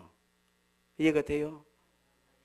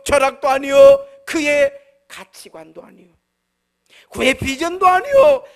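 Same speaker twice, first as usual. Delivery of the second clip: loud, ringing sermon voice, each phrase hammered; full-force preaching; 5 semitones higher, 11 dB louder than usual. Acted. Preaching climax on Abraham. (힘차게 외치는 설교)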